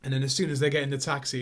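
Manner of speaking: usual speaking voice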